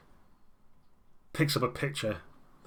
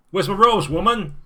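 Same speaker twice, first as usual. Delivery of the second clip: higher, much louder bellow at his daughter; angry shout; 9 semitones higher, 9 dB louder than usual. Acted. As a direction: yell from the back room for Michelle. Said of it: "He starts shouting".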